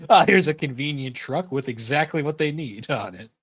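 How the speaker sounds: mock convenient discovery. Co-host mocking the handy truck scene, mock surprise. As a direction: act out a too-lucky find.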